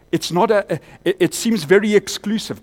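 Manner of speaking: loud preaching. Real, not acted. Preaching at full force.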